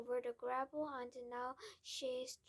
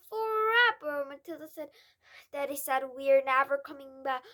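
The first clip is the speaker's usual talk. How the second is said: put-on upset girl; 3 semitones higher, 16 dB louder than usual. Girl voiced in distress.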